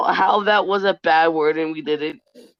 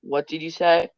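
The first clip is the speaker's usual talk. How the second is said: hushed whisper of a mother who just realised her mistake; stunned whisper. Retold or imitated. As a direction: breathe it out, shocked and quiet. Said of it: "My mom got so quiet".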